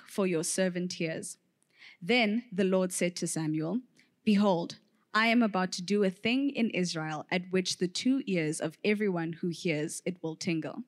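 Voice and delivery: measured public Bible reading; scripture reading. Acted. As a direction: read the passage steadily to the congregation. Reader reads scripture aloud.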